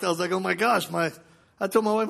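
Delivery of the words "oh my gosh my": higher-pitched amazed exclamation; gasped-out amazement, replayed lightly; acted shock. Patient realises the bleeding has stopped, shocked. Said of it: "I was all shocked".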